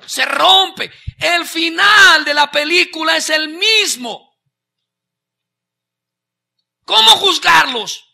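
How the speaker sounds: loud, high preaching shout; shouted, high-pitched preaching; preaching at full force. Acted. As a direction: drive it home to the congregation.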